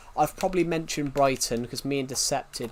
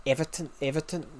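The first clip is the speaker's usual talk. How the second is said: Scouse attempt slipping into Scottish; badly aimed Scouse accent, sounding Scottish; 4 dB quieter, faster than usual. Shown as a demonstration. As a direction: try Scouse and land nearer Scottish. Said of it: "no, that's, that's Scottish".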